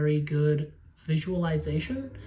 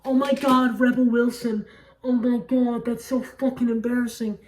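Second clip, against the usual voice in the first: higher and louder, mortified "oh my God"; embarrassed exclamation; 6 semitones higher, 5 dB louder than usual. Real, not acted. Reviewer catching her own wrong actress name, loud and embarrassed. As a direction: blurt it out, caught in a silly mistake.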